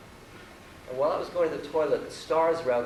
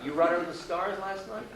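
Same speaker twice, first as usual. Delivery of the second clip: put-on old holy man; 5 semitones higher than usual. Holy man questioning the visitor about last night, lightly imitated higher voice. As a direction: put it as a raised, rising question. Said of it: "He says".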